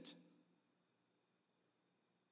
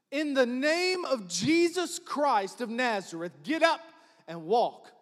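commanding shout; 4 semitones higher, 5 dB louder than usual. Acted. Peter commanding the beggar.

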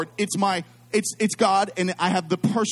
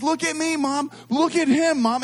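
excited; 6 semitones higher than usual. Retold or imitated. Childish delight at courtside cameras.

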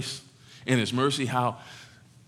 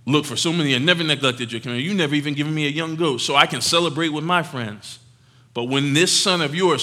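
resentful protest; 2 semitones higher, 5 dB louder than usual. Acted. Older son answering his father.

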